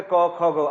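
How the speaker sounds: क, ख, ग as bare sounds with a short vowel; teacher listing consonant sounds, not letter names; consonant sounds demonstrated. Shown as a demonstration. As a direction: sound out क, ख, ग one by one. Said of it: "consonant की बात करें".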